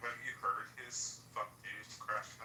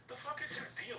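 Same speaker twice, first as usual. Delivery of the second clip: very high-pitched incredulous question; exasperated, voice shooting up; retold disbelief. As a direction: act out baffled indignation. Retells asking Abby in disbelief.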